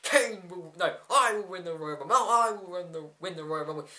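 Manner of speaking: mock bickering between tag partners; lightly acted argument; Team Hell No. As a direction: imitate two wrestlers squabbling, each cutting in. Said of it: "you have Team Hell No going".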